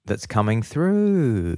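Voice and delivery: slow, stretched-out rhyme; rhyming verse. Real, not acted. Host lands the rhyme for co-host, sing-song. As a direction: draw THROUGH out in a swoop. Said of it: "hope this whole bit's gonna be in rhyme".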